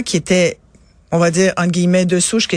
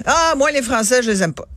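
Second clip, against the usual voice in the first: put-on higher, childlike echo of the lady's words; a kid parroting what she heard, pitched up; mother imitating her daughter repeating the insult, higher; 5 semitones higher than usual. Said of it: "elle répète".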